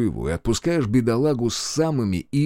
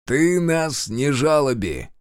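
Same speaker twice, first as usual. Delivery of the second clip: slow, higher, disgusted; drawled with disgust; 5 semitones higher, slower than usual. Acted. Reshetov cutting off the prisoner's pity story, slow and disgusted. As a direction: drag the words out in distaste. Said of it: "брезгливо протянул Решетов".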